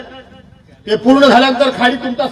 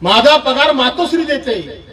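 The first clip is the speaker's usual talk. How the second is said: mocking slow repeat; slower than usual. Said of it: "बोललात ना".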